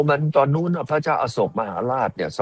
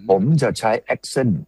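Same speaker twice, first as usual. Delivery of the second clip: slow emphasis; much slower than usual. Real, not acted.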